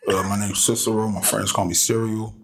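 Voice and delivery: echoing, crooner-like call-in voice; smooth, reverbed tone. Real, not acted. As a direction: introduce yourself in a smooth, reverbed tone. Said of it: "take some reverb off of that".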